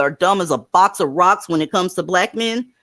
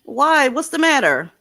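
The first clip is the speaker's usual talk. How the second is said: higher, coaxing questions; concerned; 6 semitones higher than usual. Real, not acted. Host checking on an emotional caller, concerned. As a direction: gently draw out someone who is upset.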